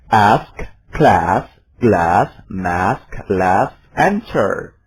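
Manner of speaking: American accent, flat short A in ask, class, glass; American flat A demo; American English. Shown as a demonstration. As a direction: say the A as in cat, American style. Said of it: "dengan gaya Amerika".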